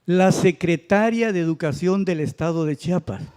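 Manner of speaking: "secretaria" con el golpe en TA; secretaria mal acentuada. Retold or imitated. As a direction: read "secretaria" stressed on -TA-, as a person. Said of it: "malamente estaba acentuada esa vocal". ("secretaria" con acento en la sílaba ta)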